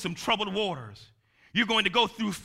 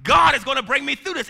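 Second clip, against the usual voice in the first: rising shout; 5 semitones higher, 6 dB louder than usual. Shown as a demonstration. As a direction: shout it louder with faith. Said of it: "you've got to say".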